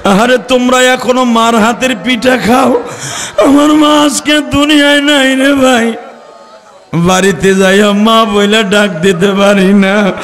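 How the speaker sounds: half-sung, mournful sermon with long drawn endings; lamenting preacher. Real, not acted. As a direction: move the crowd to tears with a chanted lament. Preaches, lamenting lost mothers. (করুণ সুরে টেনে টেনে ওয়াজ)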